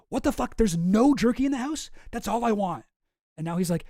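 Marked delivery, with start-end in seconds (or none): 0.1-2.8 furious. Retold or imitated. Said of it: "and he gets furious".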